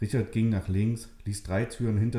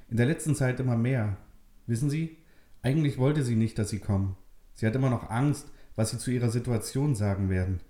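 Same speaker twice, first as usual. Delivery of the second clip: put-on lightly raised confiding young man; gently confide, a bit higher; young man Richard; 4 semitones higher than usual. Richard confides Maria's fears to Nele, lightly voiced.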